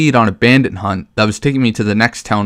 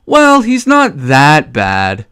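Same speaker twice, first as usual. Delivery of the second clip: mock Johanka; 3 semitones higher, much slower than usual. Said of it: "Her response to my comment".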